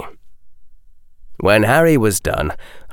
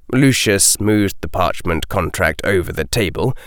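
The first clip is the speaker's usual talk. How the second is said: plain reading voice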